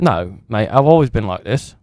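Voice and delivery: put-on British lad accent, bruv; mock British geezer voice. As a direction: play a cocky British wrestler. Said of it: "trying to sound, like, British".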